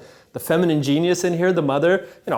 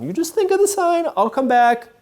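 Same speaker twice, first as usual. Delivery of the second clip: eager promise; 13 semitones higher, 5 dB louder than usual. Retold or imitated. Juan Diego speaks to bishop.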